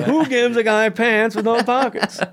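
hammed-up outraged complaint; mock outrage. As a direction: repeat the gripe in disbelief. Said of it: "repeats the complaint".

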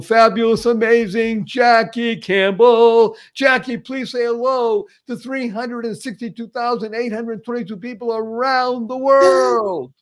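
big, high announcer build-up; hyped guest introduction. Real, not acted. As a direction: roll out the guest's name with fanfare, stretched and high. Host hypes up guest's introduction.

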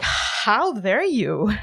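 slow, outraged "How dare you?"; mock-indignant, very slow; livid. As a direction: drag each word out in disbelief. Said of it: "It's like, I was livid".

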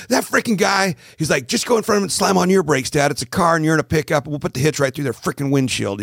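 mock road-rage kid; angry son. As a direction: play the raging teenager egging dad on. Son voiced in road rage story.

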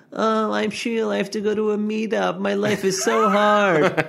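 high, whiny put-on voice, last line slowed; mocking impression of himself. Husband mimics his wife mocking him, high whiny. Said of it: "she did a little im-, impression".

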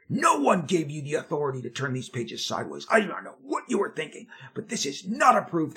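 berating. Retold or imitated. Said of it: "Mike Carlin berates me".

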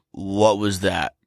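low, slow, grumpy half-asleep dad; angry sleepy dad voice. Retold or imitated. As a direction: growl it out like a woken dad. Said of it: "angry and sleepy dad voice".

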